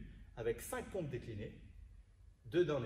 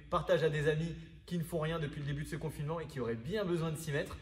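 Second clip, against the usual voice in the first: energetic outro; 5 dB louder than usual. Real, not acted. Loud upbeat outro to viewers.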